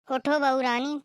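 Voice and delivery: उठो बहू रानी with a rising sing-song; mock-sweet call. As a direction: coax her with a sarcastic rani. Calling again, sweetly mocking. (व्यंग्य से मीठी पुकार)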